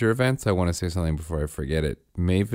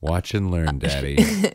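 put-on mature toddler; 4 semitones lower, slower than usual. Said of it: "mature voice I've ever heard".

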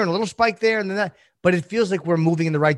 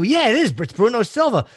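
mock insistent; 7 semitones higher than usual. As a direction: imitate him insisting he was right. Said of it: "and then it pops up and you go".

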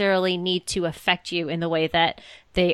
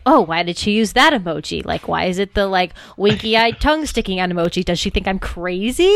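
mock anxious overthinking; 4 dB louder than usual. Acting out overthinking inner voice.

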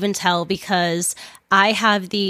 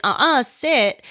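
slow, stern command to a dog; firm dog command; 4 semitones higher, slower than usual. Retold or imitated. Telling the strange dog to sit, slow and stern. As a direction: set the dog straight. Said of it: "so I was like".

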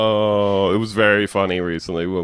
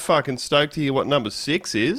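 elated radio caller; 4 semitones higher than usual. Acted. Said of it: "he's having the time of his life".

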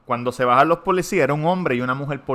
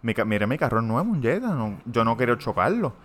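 calm innocent plea; 3 semitones lower than usual. Retold or imitated. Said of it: "le digo al guardia".

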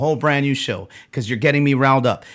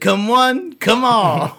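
laughing; 8 semitones higher, slower than usual. Real, not acted. Laughing protest.

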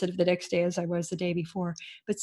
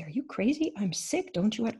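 incredulous; 3 semitones higher than usual. Retold or imitated. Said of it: "as if to say".

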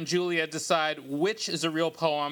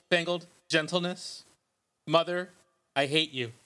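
poet voice; 2 semitones higher than usual. Pretend. Host reads fake poems to co-hosts, mock poet voice. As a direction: intone it like a self-serious poet, pausing between phrases. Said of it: "Let me get my poet voice ready".

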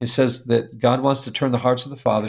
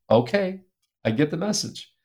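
higher okay, then a small, quiet surrender; chastened; 4 semitones higher, 4 dB quieter than usual. Retold or imitated. Dad answering God's rebuke in his heart, chastened. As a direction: meekly give in, softening at the end.

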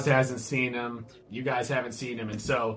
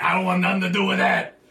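elf lady voice; 6 semitones higher, 6 dB louder, faster than usual. Retold or imitated. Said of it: "It's like".

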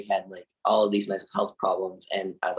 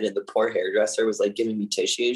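ordinary talk, nothing marked

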